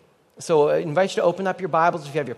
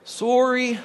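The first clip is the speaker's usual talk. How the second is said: polite sorry; 5 semitones higher, much slower than usual. Shown as a demonstration. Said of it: "say it again with me".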